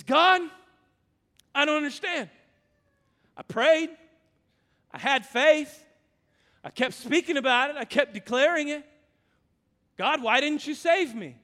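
a drowned man pleading with God; pleading Boudreaux. Acted. Drowned Boudreaux complaining to God, pleading and loud. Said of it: "and he says".

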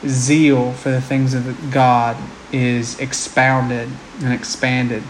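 earnest prayer voice. Acted. Closing prayer.

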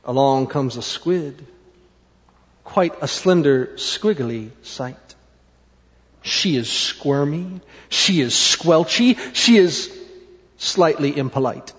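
put-on soft, slow reading to children; storybook narration. A narrator's reading. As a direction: lay out each description softly, with pauses. Reads a picture book.

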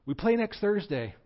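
spring the punchline lightly; high teasing ghost voice; ghost Will. Acted.

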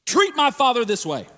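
loud, raging threat to the sinner; furious Jesus. Acted. Jesus confronting those who dishonored his Father, furious shout. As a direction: thunder it out as an outraged son defending his father. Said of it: "for Jesus to go".

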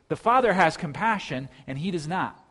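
usual speaking voice

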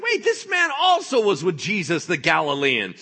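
loud, high-pitched pointing-out; insistent accusation. Acted. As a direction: expose him in front of everyone. Servant girl accuses Peter again.

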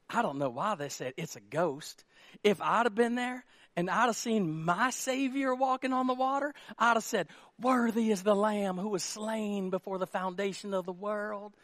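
sanctimonious know-better voice, lightly put on; mock pious preacher. Pastor mocking people who preach this passage, mock pious. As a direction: imitate someone piously claiming they'd have done better. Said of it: "You ever met those people?".

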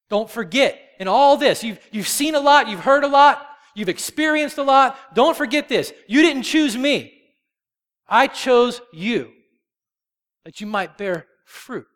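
emphatic exhortation. Acted. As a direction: press each phrase home, high and forceful. Preacher voices Jesus urging his disciples.

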